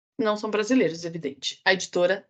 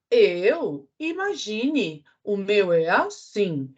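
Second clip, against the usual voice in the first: horse voice; slower than usual. Acted. Cavalo responde.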